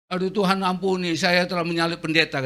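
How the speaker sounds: a hint of a remorseful driver. Bus driver repenting to the pastor, mild mock dismay. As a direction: gasp in mock horror at your sin. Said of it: "supir Metro begini".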